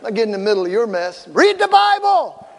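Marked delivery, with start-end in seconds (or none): 1.3-2.5 high-pitched mock shouting; hammed-up indignant back-and-forth, pitch way up; acted heated quarrel. Caller demanding the pastor come over, high hammed-up yelling.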